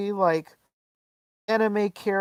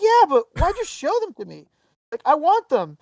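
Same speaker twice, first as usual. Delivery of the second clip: retold frustration; 8 semitones higher, 3 dB louder than usual. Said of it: "I was so mad".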